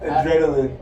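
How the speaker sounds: "adrenaline" said as uh-DREN-uh-lin; pronunciation model. Shown as a demonstration. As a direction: stress DREN in "adrenaline", short "lin" ending. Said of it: "Uh, what's that?".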